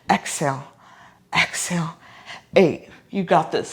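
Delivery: effortful, working out; straining mid-exercise. Real, not acted. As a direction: talk through the burn. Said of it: "My abs are on fire".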